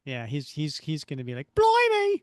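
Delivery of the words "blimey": higher, louder British "Blimey!"; British accent. Acted. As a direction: exclaim like a cartoon Brit. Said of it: "my British accent".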